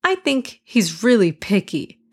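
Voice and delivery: annoyed. Acted. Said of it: "Hassan said with annoyance".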